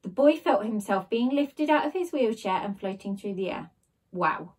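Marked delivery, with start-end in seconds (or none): 4.1-4.5 awed wow. A narrator's reading. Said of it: "he exclaimed".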